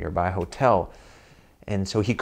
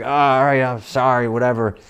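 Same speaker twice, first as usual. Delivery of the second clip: sheepish apology; 3 semitones higher, 6 dB louder than usual. Retold or imitated. Father realizing wrong door.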